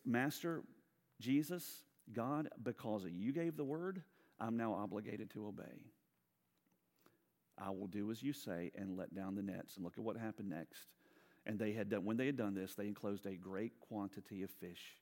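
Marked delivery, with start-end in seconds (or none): 0.0-9.8 humble obedient prayer. Retold or imitated.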